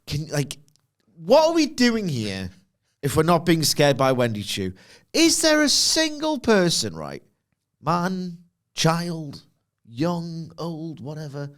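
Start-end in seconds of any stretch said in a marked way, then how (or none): 1.2-11.5 mock outrage. Real, not acted.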